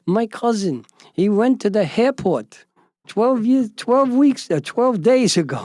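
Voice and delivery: excited Ari. Retold or imitated. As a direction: stumble over the facts in agitation. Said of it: "He's very excited".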